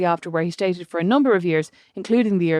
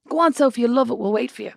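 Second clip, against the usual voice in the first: lightly voiced dad, higher at first, settling down; coaxing dad; 5 semitones higher than usual. Dad coaxing daughter onto ride, lightly encouraging. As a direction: coax her along, easing off towards the end. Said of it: "Dad was like".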